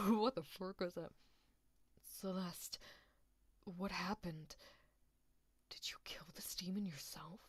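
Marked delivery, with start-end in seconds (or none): 2.2-7.4 hushed, half-whispered character voice; Pink Afton. Acted. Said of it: "I'll do Pink Afton voice for now".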